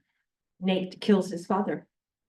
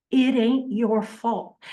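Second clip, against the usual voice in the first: tender reassurance. Acted. Quoting Nate's forgiving line.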